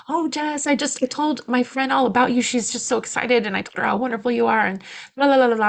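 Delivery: high, bubbly mock gushing; gushing neighbor. Doula imitates her neighbor praising her, gushing. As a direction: gush like a chatty neighbor. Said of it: "she was like".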